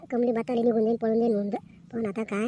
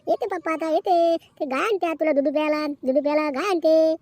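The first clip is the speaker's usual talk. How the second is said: slightly raised, cooing lilt; baby talk; 5 semitones higher, 5 dB louder than usual. Acted. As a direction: hush the baby with a promise. Hushing baby with promise of milk.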